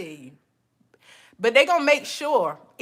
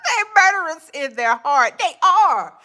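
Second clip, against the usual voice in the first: laughing accusation; 4 semitones higher than usual. Real, not acted.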